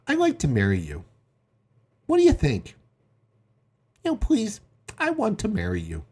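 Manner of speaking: monotone marriage proposal; passionless. Shown as a demonstration. Suitor proposing on a date, passionless. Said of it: "can't say it with more passion".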